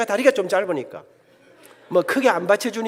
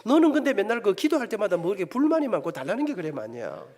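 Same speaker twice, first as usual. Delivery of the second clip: voice of God; 3 semitones lower, 4 dB quieter than usual. Retold or imitated. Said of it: "무슨 생각이 드는 거 하니까".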